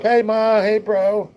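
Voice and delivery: loud, high holler to the family; high-pitched called-out greeting; yelling up. Retold or imitated. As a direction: call up into the house, drawn out. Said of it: "So I always yell up".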